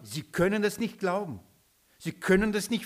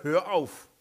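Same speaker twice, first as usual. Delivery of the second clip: mild mock rebuke, a bit louder; a touch of an angry "stop it"; 4 dB louder than usual. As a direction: imitate Peter snapping at Jesus, half-hearted. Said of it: "ihn angebrüllt".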